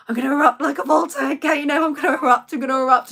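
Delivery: loud, bubbling-over frustration; retold inner rant, building pressure; about to erupt. Parent fuming inwardly during the call, about to erupt. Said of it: "I was bubbling. The Coke was going".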